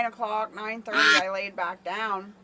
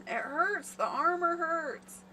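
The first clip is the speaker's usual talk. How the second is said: mock sleep scream; 7 semitones higher than usual. Wife acting out her husband yelling in his sleep, high then fading. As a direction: start with a high cry of "Don't!", then fade into a whimpering complaint. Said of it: "and he screamed again".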